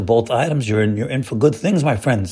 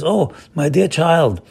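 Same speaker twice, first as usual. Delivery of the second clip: a hint of a doting father, pitched higher; lightly voiced Hashem; 4 semitones higher than usual. Hashem answering a thankful child, lightly acted. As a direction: lightly act a pleased parent addressing a child. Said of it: "you know what Hashem says?".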